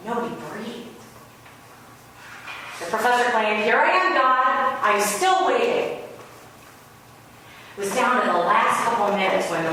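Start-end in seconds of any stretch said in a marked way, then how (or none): 3.6-6.0 mock taunt. Professor taunting God.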